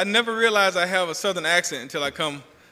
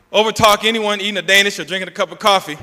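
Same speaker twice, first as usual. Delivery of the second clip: laughing boast; 6 semitones higher, 11 dB louder than usual. Real, not acted. Joke about overtalking the audience.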